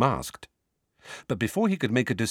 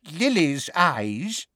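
put-on higher, slow wheezy old voice; 7 semitones higher, slower than usual. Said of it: "said a wheezy-voiced".

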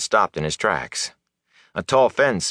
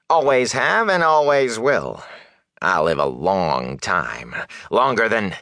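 slow, cocky character voice; boastful peddler; 3 semitones higher, slower than usual. Acted. Peddler bragging he will outlive them all, cocky and slow. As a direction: boast with drawn-out self-assurance.

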